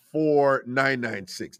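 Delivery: spelled out slowly; unhurried number read; slow area code. Shown as a demonstration. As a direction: read the digits deliberately. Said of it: "That is from Jamaica".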